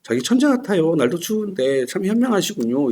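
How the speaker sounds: sweet flattery. Retold or imitated. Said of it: "연애할 때는".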